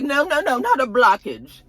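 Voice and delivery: high, insistent no no no; high, quick, defensive denial; defensive correction. Retold or imitated. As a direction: wave off the word blockage. Karen correcting him.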